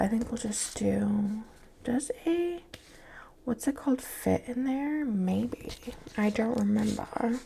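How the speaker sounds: soft breathy whisper; hushed, murmuring to herself. Real, not acted. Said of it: "Also kind of like my whisper voice".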